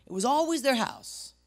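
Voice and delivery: fired-up shout. Real, not acted. Pastor driving his point home to the congregation, shouting. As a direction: blast "It was always their house" out, stressing "always". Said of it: "I got fired up".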